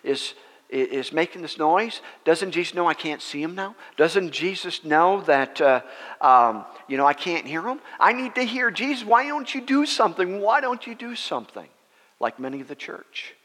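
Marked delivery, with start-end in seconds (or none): 0.0-11.7 exasperated complaint climbing higher and higher; fumed Brother Hagin. Retold or imitated. Hagin fuming that he can't hear Jesus, exasperated. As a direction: build from grumbling to a high, pleading protest. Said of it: "Brother Hagin is getting fumed".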